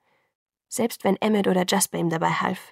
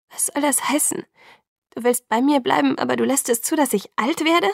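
upset protest; 6 semitones higher than usual. A narrator's reading. Bella protests to Edward, rising in distress. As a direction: push back in alarm.

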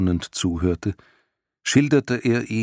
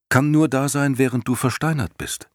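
excited; 7 semitones higher than usual. Acted. Bastian concludes excitedly.

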